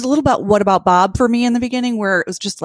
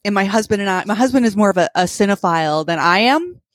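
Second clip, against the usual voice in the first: slight lisp from wearing braces; talking with braces in. Real, not acted. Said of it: "I should have taken my braces out. I'm probably gonna lisp".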